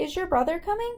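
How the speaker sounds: high, fast delivery with pitch rising at the end.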